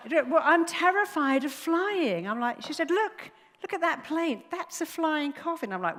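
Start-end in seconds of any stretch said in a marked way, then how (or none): 0.1-2.3 high, loud, slowed confession of fear; retold fearful passenger. Frightened passenger answering a stranger at the gate, retold fear. 2.9-5.7 high, loud, insistent alarm; retold alarmed passenger. Nervous flyer pointing at the plane, retold alarm.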